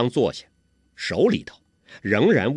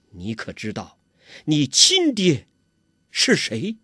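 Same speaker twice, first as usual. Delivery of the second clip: a hint of sternness, slow on 亲爹; mother presses her son with mild severity; stern demand; 2 semitones higher than usual. Mother sternly asks her son who his real father is. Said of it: "包希若厉声地说".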